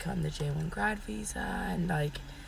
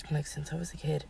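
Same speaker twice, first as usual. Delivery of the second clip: real lost voice, mostly a whisper; words pushed out through a voice that has gone; whispering with no voice left; 6 dB quieter, faster than usual. Real, not acted. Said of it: "my voice went".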